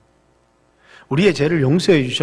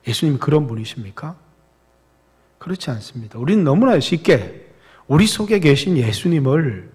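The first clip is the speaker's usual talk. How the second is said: ordinary delivery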